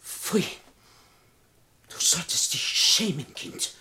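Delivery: hushed, scornful whisper; contemptuous whisper. Acted. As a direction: whisper the reproach in disgust. Reproaches traitorous companion. (verächtliches Flüstern)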